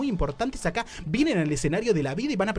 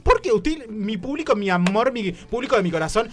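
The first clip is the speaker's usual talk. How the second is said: host flourish; 6 semitones higher, 5 dB louder than usual. Acted. Host addressing audience.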